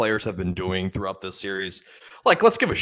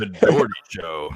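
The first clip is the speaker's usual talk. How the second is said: radio DJ voice. Acted. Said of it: "sounds like a radio voice".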